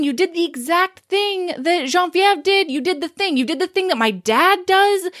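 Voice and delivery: heated, repeated accusations, starting high; insistent mock accusation. Joe listing what she did, acted indignation. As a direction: act out his wounded tirade.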